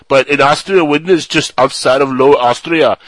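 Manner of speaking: news story in mock Austrian accent; lightly put-on Austrian accent. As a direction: read it out with a comic Austrian accent. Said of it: "smile on my face from your accent".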